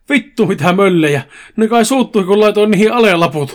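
hammed-up dismay, rising in pitch; horrified. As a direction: play mild horror, pitch climbing. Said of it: "totesi Make kauhuissaan".

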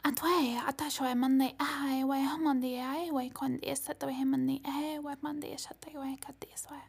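fast whispered channeled tongue; channeled light language. Acted. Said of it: "Mantis activation coming through".

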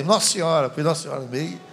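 ordinary talk

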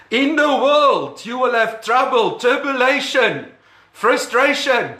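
hammed-up fire-and-brimstone reading; mock religious shouting. Shown as a demonstration. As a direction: shout the troubles like a gloomy preacher. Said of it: "here's how religious people will read".

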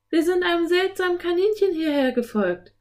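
put-on high-pitched eager girl; young girl's voice. A narrator's reading. Anne explaining to the enchantress, high girlish voice. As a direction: report it in a high child's voice.

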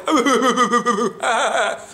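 showing how laughter releases; demo laugh. Shown as a demonstration. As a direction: open belly laugh. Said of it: "it's happening in your body at the same level".

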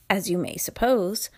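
ordinary delivery, nothing marked

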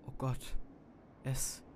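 from a hushed stammer to a loud, high, fast shriek; shrieking in terror. A narrator's reading. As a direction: panic breaking into a scream. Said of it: "kreischte ich".

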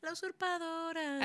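a touch of telenovela narrator; telenovela announcer. Pretend. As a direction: announce it like a soap opera title card. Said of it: "ese sería el intro si fuera una novela".

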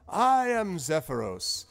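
wizard honoring the Dragonborn; courtly wizard. Acted. Zephyros bowing formally.

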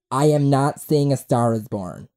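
lightly put-on declaration; mock friend's voice. Podcaster mimicking his friend's Facebook post, lightly mocking. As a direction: imitate a friend's post, a touch stiff. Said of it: "He doesn't talk like that".

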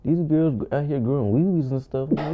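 normal talking voice

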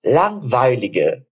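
very slow, clear model phrase for repeating; slow teacher demo; slow drill reading. Shown as a demonstration. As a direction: read it out slowly for students. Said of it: "Agora a frase inteira".

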